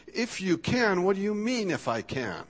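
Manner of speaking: incredulous echo. Retold or imitated. Jesus answering the doubting father, incredulous echo. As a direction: echo the doubt back as if it's absurd. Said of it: "almost like Jesus is saying".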